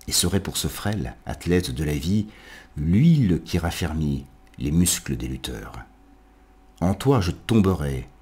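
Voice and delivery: measured verse reading with pauses between phrases; poetry recitation. Acted. Lit un poème de Baudelaire. (récitation de poème, phrasé ample et posé)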